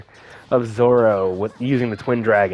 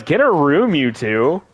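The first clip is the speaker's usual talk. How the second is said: artist teasing a kissing couple, higher mock call-out; 4 semitones higher, slower than usual. Artist spots a couple kissing in the photo, teasing call-out. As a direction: tease the lovebirds, pitched up.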